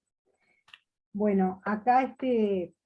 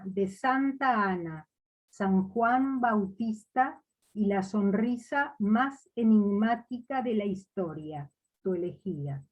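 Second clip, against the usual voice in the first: measured recital with pauses between verses; poetry reading. Acted. Poet reading a homage to Leonardo, measured poetry recital. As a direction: read the poem aloud, letting each line settle at its end. Reads own poem aloud.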